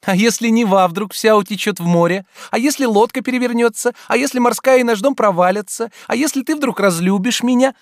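high, loud mocking rush of questions; mock his worries playfully; playful teasing. A narrator's reading. Olga teasing. (дразнит, звонко)

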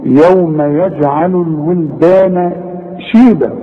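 drawn-out recitation with bounced j in يجعل; qalqalah on ج. Shown as a demonstration. Teacher reciting the whole example, qalqalah in يجعل. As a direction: echo the ج of يجعل, stretch the long vowels. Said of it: "أقلقلها".

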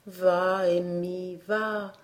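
put-on the oak soothing the boy; hushed motherly voice; even gentler. A narrator's reading. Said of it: "la voix encore plus radoucie".

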